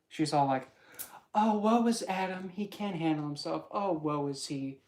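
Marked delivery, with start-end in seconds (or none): 1.3-2.5 higher, louder, swooning mock woe; taunting woman figure swoons mockingly; overdramatic mock lament. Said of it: "doing overdramatic faint". 2.5-4.8 lightly voiced taunting woman; overdramatic mock lament. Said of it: "doing overdramatic faint".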